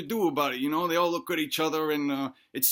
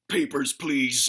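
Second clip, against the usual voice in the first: low, slow robotic demand; robot war mech; 4 semitones lower, slower than usual. Acted. War mech demanding papers from the family, slow low robot. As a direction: speak as an officious war machine. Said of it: "it's a giant North Korean war mech".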